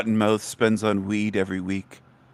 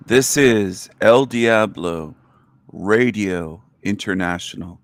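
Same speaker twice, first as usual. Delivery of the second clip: radio announcer; slower than usual. Acted. Opens his radio show.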